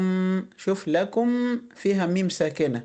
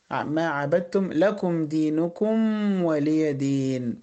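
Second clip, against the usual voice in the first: Quran recitation; much slower than usual. Acted. Recites verses.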